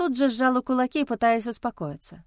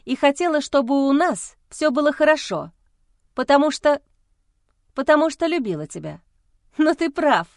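nervous laugh; 6 semitones higher, 5 dB louder than usual. Acted. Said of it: "рассмеялась я нервно".

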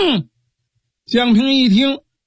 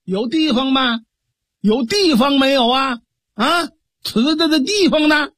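higher calling out to someone far off; 5 semitones higher than usual. Acted. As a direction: shout for the local officer across the field. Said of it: "使劲的呼唤". (提高嗓门远远呼唤)

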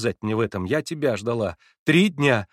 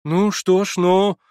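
terribly embarrassed; 9 semitones higher, 6 dB louder, much slower than usual. A narrator's reading. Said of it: "в ужасном смущении".

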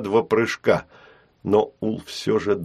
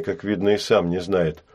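ordinary delivery

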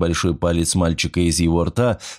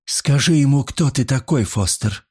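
higher, mocking jab; sarcastic; 6 semitones higher than usual. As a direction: needle him with a sarcastic edge. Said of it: "язвительным тоном вмешалась".

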